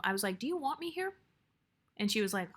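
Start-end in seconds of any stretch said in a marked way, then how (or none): 0.4-1.1 soft, level question lifted high in pitch; very calm tone. Retold or imitated. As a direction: ask it calmly and quietly, voice up. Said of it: "said it in a very calm tone".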